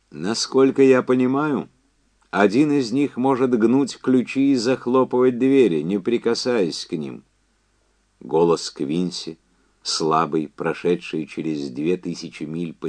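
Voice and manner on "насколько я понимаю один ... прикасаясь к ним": high, loud, emphatic caller; Quincy's phone voice. Acted. Quincy telling Andy about the test survivors, high and insistent. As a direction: push it up high and project.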